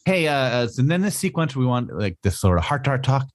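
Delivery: lightly mocked comic writer, breaking into laughter; imagined Claremont. Podcaster imagines a writer briefing his artist, mock-casual. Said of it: "I can't imagine Claremont's like".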